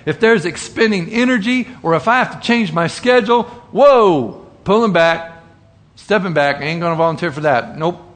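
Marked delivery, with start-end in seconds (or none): 1.8-8.0 recoil, then wave it off fast; lightly voiced lazy man. Preacher mimics a lazy churchgoer refusing to volunteer, hurried brush-off.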